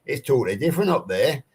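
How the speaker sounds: demonstrated up-north English accent; lightly put-on Northern English accent. Shown as a demonstration. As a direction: talk a bit like they do up north. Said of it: "up north, they speak a bit like this".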